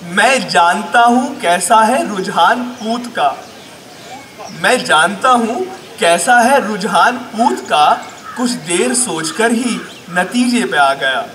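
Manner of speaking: projected, measured comic verse; emphatic Urdu poetry delivery; mushaira recitation. Acted. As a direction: declaim each line with small pauses.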